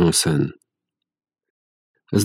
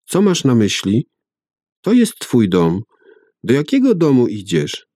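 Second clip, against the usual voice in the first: put-on child asking; 6 semitones higher than usual. A narrator's reading. Child questions father.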